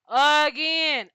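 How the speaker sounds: loud, fed-up shout; fed-up shout at Drew's lying; exasperated outburst. Real, not acted. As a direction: throw up your hands and yell it.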